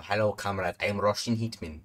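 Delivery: mock Russian hitman accent. Gamer playing a Russian hitman, mock Russian accent. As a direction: try out a rough Russian accent. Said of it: "you might be a Russian".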